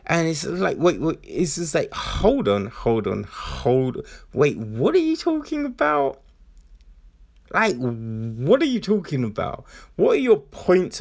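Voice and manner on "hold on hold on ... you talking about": bewildered. Retold or imitated. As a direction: caught off guard by the twist. Imagined reaction to plot twist.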